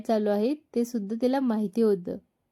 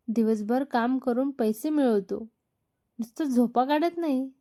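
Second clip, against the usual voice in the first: angry outburst. Acted. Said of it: "संतापून बोलतच राहिला".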